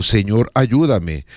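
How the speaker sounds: an unhurried humble plea; simple prayer. Shown as a demonstration. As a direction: say it slowly, as a trusting prayer. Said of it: "Cuando esté preocupado".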